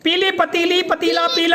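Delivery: quick run through the whole line; fast tongue twister. Shown as a demonstration. Teacher showing the class how to say it fast, quickly. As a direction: rattle it off quickly. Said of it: "जल्दी जल्दी बोलना है".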